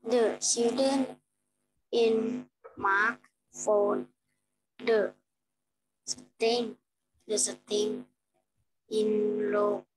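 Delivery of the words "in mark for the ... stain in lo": glitchy robotic mic; choppy distorted robot audio. Real, not acted. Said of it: "You sound like a robot".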